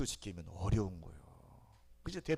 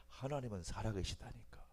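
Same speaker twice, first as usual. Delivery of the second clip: ordinary talk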